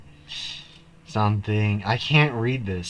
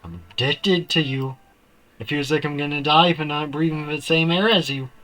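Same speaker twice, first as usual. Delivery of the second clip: put-on lovestruck stalker girl, breathless and intense; obsessive confession; 5 dB louder than usual. Gamer voicing the obsessed girl's confession to Pokeshine. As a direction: read it as a clingy yandere pouring her heart out. Reads yandere character's confession lines.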